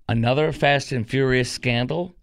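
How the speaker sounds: whispered conspiratorial tease; breathy radio tease whisper; teaser whisper. Acted. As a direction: hush it like a secret coming up. Radio teaser for next segment.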